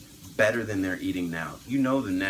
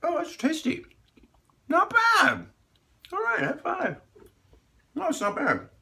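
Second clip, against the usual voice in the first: excited. Real, not acted. Tasting the sweet potato.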